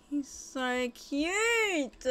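very slow, drawn-out adoring coo; slow tender gush. Real, not acted. Gushing over baby sim.

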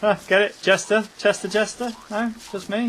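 pushing for a laugh at his own joke; playful get-it prod; eager pun check. Real, not acted.

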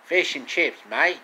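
put-on proudly doing a light British accent; perfect British accent. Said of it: "said it in the perfect British accent".

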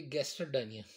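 gastrodynia without its o, as "gaster-dynia"; missing linking vowel. Shown as a demonstration. Teacher showing why gastrodynia needs a vowel, joined without the o. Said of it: "if we do not add here".

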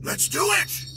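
high, loud eager exclamation; eager cry. Acted. Brain in a jar eager for a new body, high loud cry.

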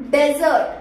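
"डेजर्ट" starting on "de"; crisp DEZ-ert for "डेजर्ट"; contrasted pronunciation. Shown as a demonstration. Trainer naming the sandy place, contrasted pronunciation. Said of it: "ये है".

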